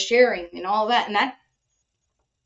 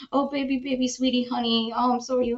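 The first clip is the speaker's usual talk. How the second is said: lightly cooed, imitating a doting girlfriend; mock doting; faster than usual. Girlfriend comforting partner after a hard day, mock doting. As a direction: fuss over him sweetly, a touch mocking.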